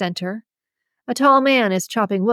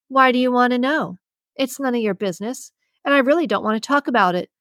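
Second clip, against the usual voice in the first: abrasive, defensive; 4 semitones higher, faster than usual. Acted. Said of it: "My abrasive tone shifts".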